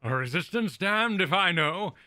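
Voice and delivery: a hint of a weary old man; half-hearted old geezer voice. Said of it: "I took a guess at the old".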